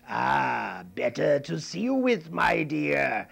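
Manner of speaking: slow, lightly sly granny; a hint of a wolf in granny's voice; wolf as grandmother. Wolf answering the girl, lightly sly.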